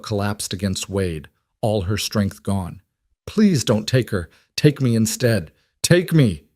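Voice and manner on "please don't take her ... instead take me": pleading. Acted. Mother begs the men.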